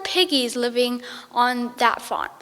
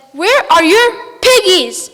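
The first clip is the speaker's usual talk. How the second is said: witch demand; 5 semitones higher, 9 dB louder than usual. Acted. Witch demanding piggies from the ducks, high loud witch voice. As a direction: draw it out like a cackling witch.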